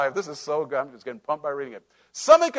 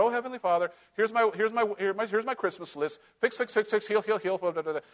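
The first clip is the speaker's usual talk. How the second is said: mock shopping-list prayer; 4 semitones higher than usual. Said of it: "That's what a lot of people do".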